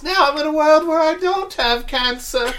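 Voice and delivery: very high, loud put-on voice; hammed-up high-pitched delight in a virtual world; Mark Zuckerberg. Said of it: "He just puts on virtual reality glasses".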